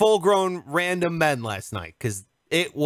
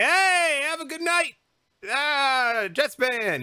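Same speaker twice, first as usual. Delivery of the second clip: mock cheery sendoff; 7 semitones higher, slower than usual. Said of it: "I'm like".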